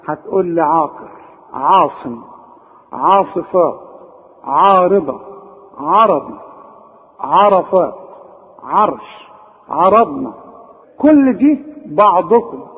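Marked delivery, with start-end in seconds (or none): 0.6-10.3 over-darkened vowel after each ع; dark, thickened Ayn words; wrongly heavy Ayn. Shown as a demonstration. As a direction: list each word with a heavy, backed "aa" after ع. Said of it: "كل دي بنقولها غلط".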